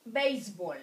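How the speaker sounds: Spanish "baseball" with a strong first syllable; next-to-last syllable stressed. Shown as a demonstration. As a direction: hit BÉIS in "baseball", Spanish style. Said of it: "The strong one is in the next to last".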